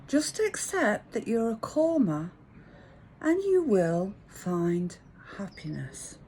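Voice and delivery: measured, slow sage delivery; dad's advice. Retold or imitated. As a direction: impart slow fatherly wisdom, pausing between phrases. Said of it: "My dad said".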